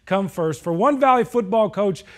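punchy news narration with music under; TV sports feature read. Acted. Sports anchor introduces coach's story to viewers, polished feature read. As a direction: sell the spotlight story line by line.

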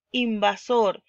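"invasor" with the weight on the final SOR; stress on SOR. Shown as a demonstration. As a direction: lean on the last syllable of "invasor". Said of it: "y sor".

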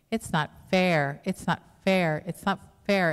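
mild mock whining protest, drawing out FAIR; indignant complaint. Preacher voices grumbling vineyard workers to the congregation, indignant.

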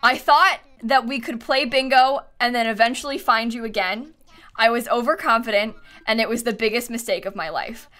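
hammed-up sincere confession, lightly played; mock heartfelt apology. Streamer confessing to a lost villager, mild mock remorse. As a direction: overdo the remorse with a straight face. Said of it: "Have you tried apologizing to Pietro?".

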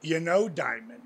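a hint of The Rock's low, cocky persona. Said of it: "rolling into character".

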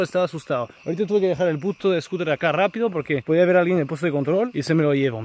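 high-pitched aggrieved complaining; exasperated rant. Real, not acted. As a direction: rant at your own rotten luck. Ranting over stolen scooter and bad luck.

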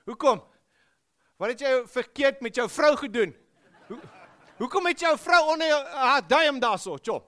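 loud, high mocking Afrikaans bloke; mock Afrikaans friend teasing; teasing Pretoria Afrikaans. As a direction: rib him like a Pretoria oke. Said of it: "In Pretoria, it goes something like this".

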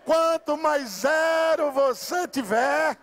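rousing revival preacher at full cry; full-force preaching. Real, not acted. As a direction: preach it to the rafters.

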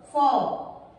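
single out "fó" as the stressed syllable; sílaba tônica isolada. Shown as a demonstration. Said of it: "elas possuem a sílaba mais forte". ("fó" isolado, firme e mais grave)

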